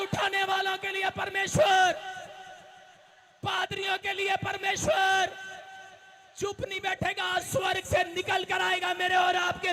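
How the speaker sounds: slow, high shouted sermon; preacher roaring a promise to the crowd, slow and loud; preaching at full force. Acted. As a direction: thunder it out to the congregation.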